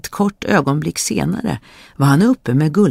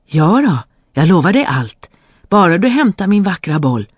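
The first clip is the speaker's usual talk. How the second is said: eager princess; 4 semitones higher, 5 dB louder than usual. Acted. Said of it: "sa prinsessan".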